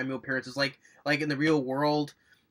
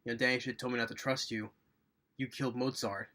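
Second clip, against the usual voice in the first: quiet accusation; 6 dB quieter than usual. Retold or imitated. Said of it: "Slater is like".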